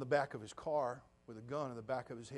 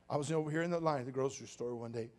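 ordinary talk

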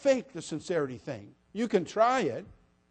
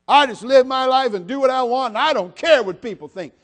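higher, louder mock defiant brush-off; careless defiance; 7 semitones higher, 10 dB louder than usual. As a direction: play the shrugging rebel who brushes everyone off. Voices a careless dismissive person.

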